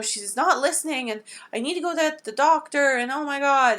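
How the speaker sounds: a touch of the panicked maid; flustered maid. Retold or imitated. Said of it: "she's like".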